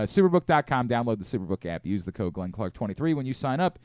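brisk sponsor read. Acted. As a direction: read it like a sportsbook ad. Reads sponsor ad.

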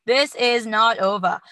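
hammed-up Irish with an Austrian action-hero slip; attempted Irish accent. Host retrying a fighter's post-fight quote, shaky Irish accent. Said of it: "Yeah, there it is".

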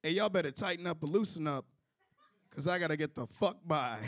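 a half-hearted imitation of an old man's yell; mock yell. Old man yelling at a stalled crowd, mild mock yell. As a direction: toss it out like a mild retold holler. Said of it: "just yells out".

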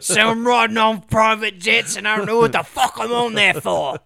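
put-on loud Indian telemarketer accent; hammed-up Indian telemarketer read. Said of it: "kinda sounding like Indian telemarketer".

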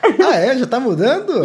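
high, loud laughing surprise; delighted disbelief, laughing; laughing surprise at her changing accent; amused surprise. Real, not acted. Hearing her accent keeps changing.

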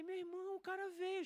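high-pitched amazed exclamation; retold triumph. Retelling a friend turning up at cell group, high triumphant amazement. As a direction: crow it in a high voice, reliving the win. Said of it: "eu me senti o próprio".

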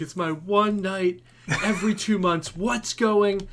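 imitating his wife, half laughing; mock angry wife. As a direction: play the annoyed wife whose night got ruined. Angry wife voiced in story.

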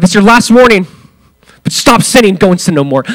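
stern warning tone. Shown as a demonstration. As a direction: warn him like a strict judge losing patience. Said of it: "with that tone or language".

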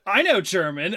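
retold child's eager announcement; mildly imitated young daughter; popping off proudly. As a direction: pipe up like a little kid, lightly. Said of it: "just pops off".

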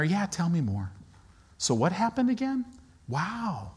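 soft, casual, interested listening; listen at leisure, lightly and softly; unhurried Jesus. Acted. Jesus hanging there listening to her story, relaxed and interested. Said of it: "Jesus is just hanging there".

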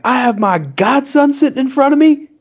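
put-on very high squeaky baby voice; high-pitched baby voice. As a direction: whine like a pouty toddler. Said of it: "a high-pitched baby tone voice".

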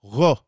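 "Ro" with a throaty back-of-mouth R; Hebrew resh. Shown as a demonstration. Teacher isolating the letter, "Ro" with Hebrew resh. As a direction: sound out "Ro" with a guttural resh. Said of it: "is an R, a Resh".

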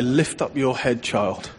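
put-on soft, slow and gentle, easing off on child; hushed fatherly reassurance; God's tender voice. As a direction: speak it as a loving father lifting a child's chin. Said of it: "I heard him say".

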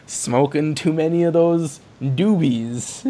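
loud, slow stoner whoa; stoned Indiana Jones. Pretend. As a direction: drag it out like a stoner. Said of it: "He's like".

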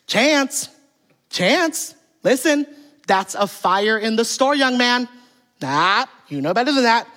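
mother gently correcting her son in a store. Retold or imitated. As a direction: coax the kid mildly, a touch too sweet. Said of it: "the mom goes".

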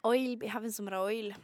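playful imitation Irish accent; mock Irish accent. Shown as a demonstration. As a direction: exaggerate an Irish accent for fun. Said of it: "I'll do the Irish instead".

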